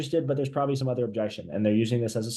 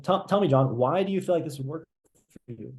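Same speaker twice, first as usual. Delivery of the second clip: confused. Shown as a demonstration. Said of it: "almost sounding confused here".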